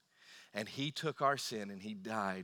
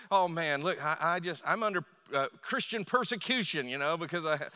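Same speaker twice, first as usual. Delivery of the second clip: higher, louder mock whine of a caught speeder; whiny excuse; 4 semitones higher, 5 dB louder than usual. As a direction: play the pulled-over driver pleading persecution. Mock speeder claiming persecution.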